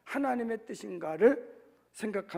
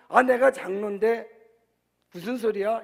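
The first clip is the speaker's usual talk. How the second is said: louder, higher mock-indignant retort; mock indignation; 3 semitones higher, 10 dB louder than usual. Preacher imitates an elder snapping at criticism, mock indignant. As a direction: act out an offended elder bristling. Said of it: "이러면서 화를 내시지 말고요".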